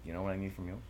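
lightly put-on impression of an insistent politician; Bernie Sanders. Host teases partner in bed, lightly impersonating politician. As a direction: make a bedroom demand like a stumping senator. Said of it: "don't do Bernie Sanders".

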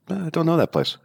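high-pitched voice of an unknowing bartender; clueless bartender. Retold or imitated. Bartender's blank answer retold.

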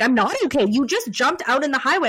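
mildly mad at the cop, retelling it; retold tearful anger. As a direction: snap back at the officer, lightly acted. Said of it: "getting mad at the cop".

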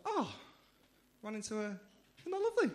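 high, gushing mock girlfriend. Comic mimics girlfriend cooing at article, high gushing. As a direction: gush over the article. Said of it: "She's like".

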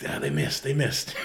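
imitating a hushed, secretive answer; whispered reply. Whispering the score to an old man at a band competition, whispered. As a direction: whisper it back over your shoulder. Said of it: "he whispers, he's like".

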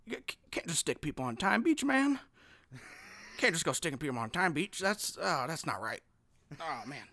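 put-on lightly done old-man Biden voice; Joe Biden impression. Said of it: "Is, is that a decent Biden?".

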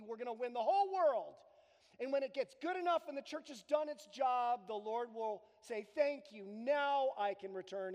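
loud, fast mock triumph; mock triumphant believer. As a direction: parody a naive victory cry. Mocking a naive triumphalist view.

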